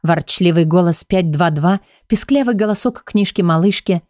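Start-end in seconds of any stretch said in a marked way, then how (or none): none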